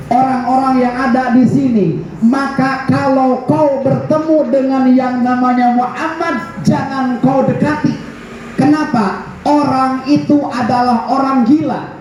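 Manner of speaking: imitated crying out. Preacher acting a man warning people off Muhammad, imitated crying out. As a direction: proclaim it high, only acting a shout. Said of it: "orang Yahudi itu sambil teriak-teriak".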